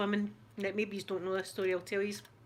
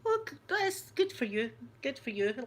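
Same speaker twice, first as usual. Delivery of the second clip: fake enthusiasm; 4 semitones higher than usual. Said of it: "I was going".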